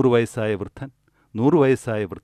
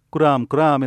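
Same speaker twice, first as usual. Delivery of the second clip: higher, louder mock baby wail; imitated newborn cry; 4 semitones higher, 5 dB louder, slower than usual. Newborn coming out into the world, imitated crying. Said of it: "കരഞ്ഞു കരഞ്ഞാണ് വെളിയിൽ വരുന്നത്".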